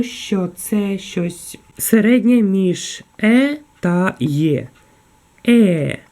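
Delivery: «Е» said between Ukrainian Е and Є, drawn out; German E sound. Shown as a demonstration. Teacher shows the German E sound to her class. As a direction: model the in-between «Е». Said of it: "зверніть увагу".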